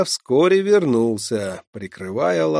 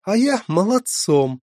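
playful retort; 6 semitones higher, 5 dB louder than usual. Acted. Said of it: "возразила шалунья".

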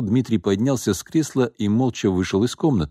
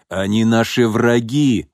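slow, emphatic, louder outburst; angry exclamation; 2 semitones higher, 4 dB louder, slower than usual. Acted. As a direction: declare it slowly with anger. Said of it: "воскликнул Иван".

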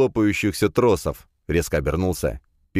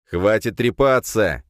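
growl; 4 semitones higher, 4 dB louder, slower than usual. Acted. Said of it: "прорычал я".

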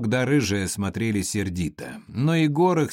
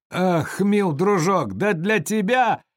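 put-on high, louder drunken clowning; 9 semitones higher, 4 dB louder than usual. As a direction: play the fool for the crowd. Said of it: "кривлялся Егор".

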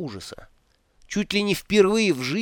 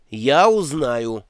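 louder and slow, each word bitten off; snapping back, slow; 5 dB louder, much slower than usual. Acted. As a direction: snap it back, defiant. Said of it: "огрызнулся Ринсвинд". (огрызаясь, громко и медленно)

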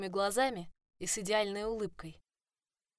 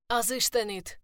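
grumbled curse; 4 semitones higher, 6 dB louder than usual. A narrator's reading. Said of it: "проворчал Кейден себе под нос".

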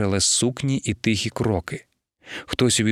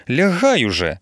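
urging; 3 semitones higher, 4 dB louder than usual. Acted. Wife urging husband to bed.

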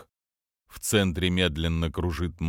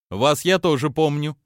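cartoon princess; 7 semitones higher, 5 dB louder than usual. Price voice.

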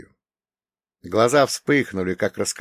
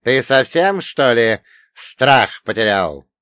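icy demon voice; 7 dB louder than usual. Acted. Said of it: "Его голос стал ледяным".

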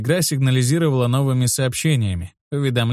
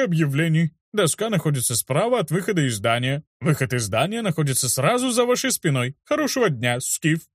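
official's voice; 4 semitones higher than usual. Acted. Councilor gives directions.

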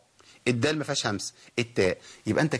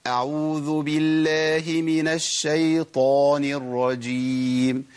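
recited very slowly and drawn out; slow Quran recitation; much slower than usual. Shown as a demonstration. Teacher reciting the isti'adha to his students, slow chant. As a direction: chant أعوذ بالله من الشيطان الرجيم in slow tajweed. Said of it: "أما أقول".

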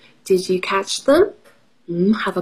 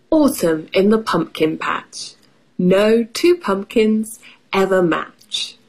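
put-on reading to children. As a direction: read the rhyme to little kids. Reads picture book aloud.

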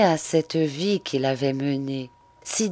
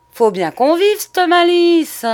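loud, much higher, grating growl; 14 semitones higher, 8 dB louder than usual. Acted. Prostitute growls her answer at Monsieur Lerat, loud and harsh. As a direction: snarl it as she walks off. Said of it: "Elle grogna".

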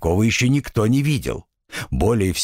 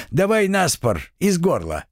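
devil voice; 7 semitones higher than usual. Acted. Devil dares Denisych.

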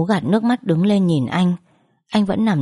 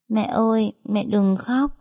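put-on child comforting; 4 semitones higher, slower than usual. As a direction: gently beg mom not to cry like a small child. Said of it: "Bình thấy tôi khóc liền nói".

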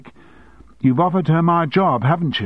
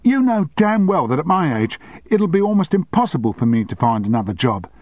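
higher, raised indignant outburst; angry secretary; 5 semitones higher, 4 dB louder than usual. Acted. Secretary confronting her boss, indignant. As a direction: hurl the years of sacrifice at him.

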